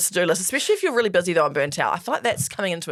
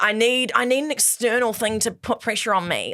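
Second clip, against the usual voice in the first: whiny voice. Retold or imitated. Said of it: "I love you added the whiny voice".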